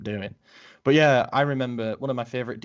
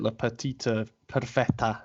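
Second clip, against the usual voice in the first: lightly attempted Italian accent; amateur go at an Italian accent; dreadful Italian accent. Real, not acted. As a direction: say it with a clumsy, half-hearted Italian accent. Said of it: "excuse my dreadful Italian accent".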